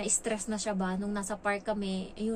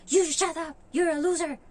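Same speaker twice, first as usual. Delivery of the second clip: retold shouting, high and loud; child yelling; 8 semitones higher, 7 dB louder than usual. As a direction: yell the insults like a bratty kid. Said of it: "Sabi ganun sa akin".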